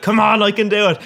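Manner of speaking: urgent self-urging. Retold or imitated. Retelling his frustrated urging in game.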